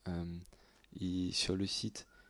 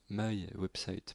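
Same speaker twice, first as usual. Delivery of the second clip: "My Website" redone slowly in an English accent, "maï ouèbsaït"; slow down and give "My Website" a proper English accent; careful, exaggerated English accent on "My Website"; much slower than usual. Shown as a demonstration. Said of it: "Voilà, l'accent anglais".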